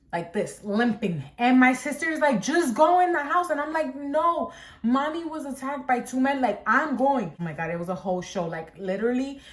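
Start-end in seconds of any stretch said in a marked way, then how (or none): 2.4-3.5 higher, pleading command, retold; acted exasperated order. Sister telling injured sibling to go home, imitated exasperation. 4.0-7.3 higher, insistent retold protest; acted defiant refusal. Limping sibling refusing sister's order, acted defiant insistence.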